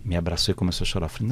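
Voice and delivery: ordinary delivery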